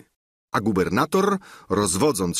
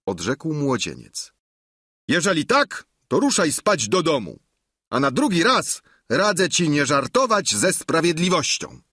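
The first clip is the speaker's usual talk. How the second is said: raised, lightly voiced governor giving a warning; Sancho relenting; 7 semitones higher than usual. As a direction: dismiss the boy with mock sternness. Sancho rozstrzyga sprawę. (lekko zagrany gubernator, wyżej)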